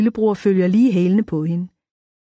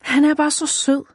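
swooning over a crush, pitched higher; dreamy sigh; 7 semitones higher than usual. A narrator's reading. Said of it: "hun sukker drømmende". (drømmende, forelsket suk)

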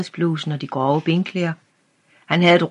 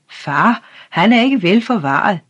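higher, louder, urgent blurting; alarmed exclaim; 5 semitones higher, 5 dB louder than usual. A narrator's reading. Boy runs to his father and exclaims in alarm. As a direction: burst out with worry to his father. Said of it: "udbrød han".

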